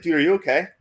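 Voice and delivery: a mock-annoyed coach snapping at his pitcher; retold mad coach. Pitching coach on the mound confronting a struggling pitcher, mildly annoyed. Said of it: "He's, like, mad at me".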